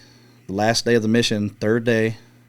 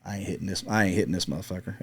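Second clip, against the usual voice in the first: whispered doubt; 2 semitones lower, 8 dB quieter than usual. Retold or imitated. Doubting the shot to himself.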